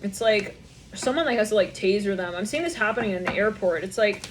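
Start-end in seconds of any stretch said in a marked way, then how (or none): none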